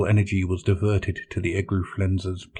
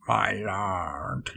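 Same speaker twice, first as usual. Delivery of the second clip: croaked; 7 dB quieter than usual. Acted. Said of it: "the servant croaked".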